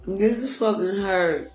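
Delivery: low, soft, heavy with grief; real grief, quiet and low; hurt, grieving. Real, not acted. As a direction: let the pain weigh every word. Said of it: "This is my face showing y'all hurt".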